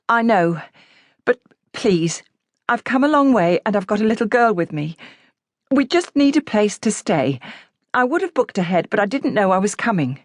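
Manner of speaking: high, pleading, near tears. A narrator's reading. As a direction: beg for a room, close to crying.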